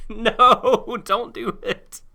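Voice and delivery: squeaky high laughing plea; high pleading. Retold or imitated. Voicing Ash's plea again.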